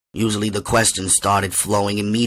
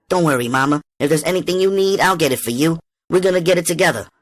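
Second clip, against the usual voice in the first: higher, brisk comforting push; reassuring; 8 semitones higher, 3 dB louder, faster than usual. A narrator's reading. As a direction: promise her everything, fast. Comforting her crying mother.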